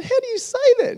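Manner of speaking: retold astonished question; stunned disbelief. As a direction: gasp it out in disbelief. Stunned by her answer.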